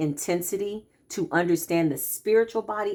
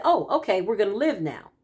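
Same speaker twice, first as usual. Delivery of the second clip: playful body voice; 3 semitones higher than usual. Retold or imitated. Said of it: "the body responded and said".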